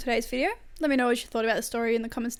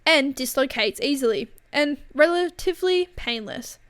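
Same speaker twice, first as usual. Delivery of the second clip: louder, emphatic story narration; story read-aloud; 6 dB louder than usual. A narrator's reading. Reader telling viewers about scaring Karen with a neck trick, story read-aloud. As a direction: read the tale out with punched key words.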